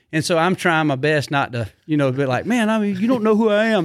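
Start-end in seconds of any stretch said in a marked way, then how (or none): 2.5-3.8 mock entitled celebrity. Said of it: "I hate those people who do that".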